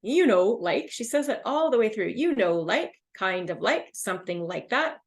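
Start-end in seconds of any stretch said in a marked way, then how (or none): 0.0-0.9 imitating filler phrases. Shown as a demonstration. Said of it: "She uses this expression very frequently". 2.1-5.0 imitating filler phrases. Shown as a demonstration. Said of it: "I sound like a, a broken record now".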